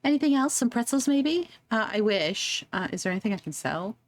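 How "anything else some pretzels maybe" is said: put-on old lady voice. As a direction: croon like a sweet old granny. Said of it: "I don't know how to do an old lady voice".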